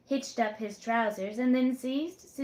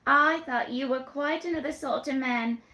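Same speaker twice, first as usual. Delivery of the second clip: put-on higher, teasing young woman's voice; coy young woman; 3 semitones higher, 4 dB louder than usual.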